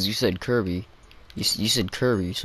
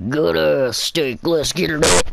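excited shout; 5 semitones higher, 4 dB louder than usual. Real, not acted. Hyping up the steak.

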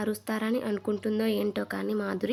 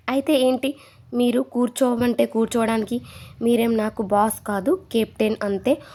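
mock-angry tirade, louder; retold tirade; 6 dB louder than usual. Madhuri retold blasting the captain, mock-angry and louder. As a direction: hammer the captain with raised voice. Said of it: "Madhuri వాయించేసింది".

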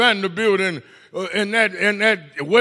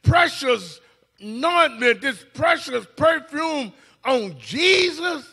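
slow, higher mocking whine; mock complaint; 5 semitones higher, slower than usual. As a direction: stretch out the grumbling. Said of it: "She said".

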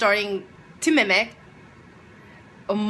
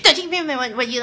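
indignant quote; 5 semitones higher, 4 dB louder, much faster than usual. Retold or imitated. Retold quarrel with classmate.

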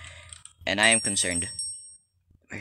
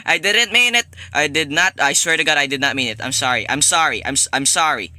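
frantic apology; 2 semitones higher, 5 dB louder than usual. Pretend. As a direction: beg Granny off in a hurry. Frantic apology to Granny in game.

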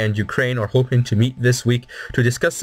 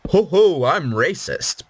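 mock braggart; 5 semitones higher than usual. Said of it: "you say".

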